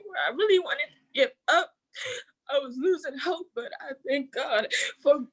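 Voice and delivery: words wet with tears; holding back sobs while thanking; real crying. Real, not acted. Tearful thanks to teachers.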